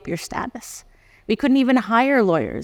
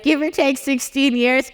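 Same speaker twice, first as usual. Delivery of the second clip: higher, slow, deliberate reply; pointed repeat; 5 semitones higher than usual. Retold or imitated. Repeating her answer to the officer, slow and pointed. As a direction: lay each word down pointedly. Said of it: "I'm like".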